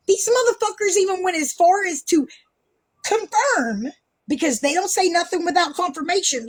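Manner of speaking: defensive, emphatic challenge; super defensive. Real, not acted. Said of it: "I am absolutely super defensive".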